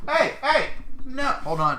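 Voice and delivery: high, loud yell at the dog; real shout at dog. Real, not acted. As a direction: stop the dog cold. Dog grabs his shoe.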